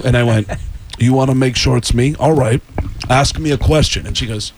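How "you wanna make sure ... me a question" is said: lightly voiced challenging rock star. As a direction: impersonate a star daring the assistant. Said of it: "I prank called them as a rock star".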